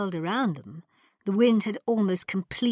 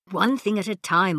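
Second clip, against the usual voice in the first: sharp; 5 dB louder than usual. Acted. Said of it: "Marco replied sharply".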